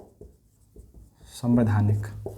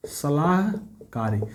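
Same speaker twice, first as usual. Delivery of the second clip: slow dictation; much slower than usual. Shown as a demonstration. Teacher giving the correct answer, slowly. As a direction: stretch the word out. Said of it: "सलाहकारी संस्थान का मतलब".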